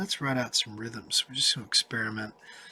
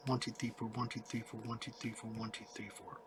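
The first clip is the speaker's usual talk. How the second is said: quiet count fading softer; 2 semitones lower, 13 dB quieter, faster than usual. Shown as a demonstration. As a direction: count along, drifting softer each bar. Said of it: "count those out".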